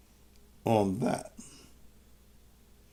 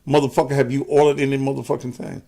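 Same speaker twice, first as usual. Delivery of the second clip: angry cussing; 3 semitones higher, faster than usual. Real, not acted. Cussing out a commenter live.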